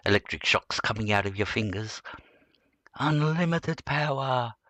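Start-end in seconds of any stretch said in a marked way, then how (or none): 3.0-4.5 higher, slow sinister Emperor voice; drawn-out gleeful Sith lord; Palpatine. Retold or imitated. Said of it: "like Palpatine would say".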